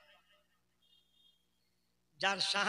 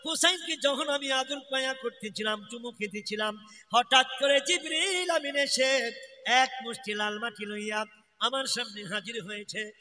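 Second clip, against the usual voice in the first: lightly chanted storytelling with stretched phrase endings; melodic preaching; 4 dB louder than usual. A narrator's reading. Preacher retelling Jibril's news of Karbala, melodic narration. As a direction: intone the tale in a singsong preacher's cadence.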